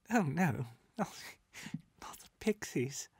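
put-on amused boy laughing through his words. A narrator's reading. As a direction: chuckle in mock alarm. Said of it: "The boy Rupert laughed".

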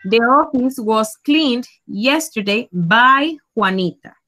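drawn out, clear; teacher adding who did the action; slow example sentence. Shown as a demonstration. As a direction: read it slowly for the class. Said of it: "lo podemos hacer".

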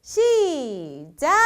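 long stretched ready, go; drawn-out countdown call. Real, not acted. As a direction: stretch each word like a starting call. Host starting a game.

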